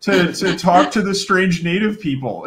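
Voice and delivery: lightly put-on intrepid visitor; mock anthropologist. Mocking journalists visiting the natives, mock anthropologist.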